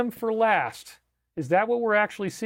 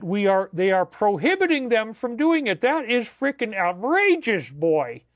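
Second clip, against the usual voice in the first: drawn-out, rising outrage; mock outrage; 3 semitones higher than usual. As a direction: work up to an indignant cry. Acted outrage at the news.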